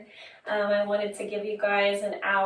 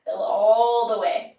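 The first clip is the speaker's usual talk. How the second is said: guided breathing; 5 dB louder than usual. Acted. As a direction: coach them through a big, releasing breath. Coaches deep breathing.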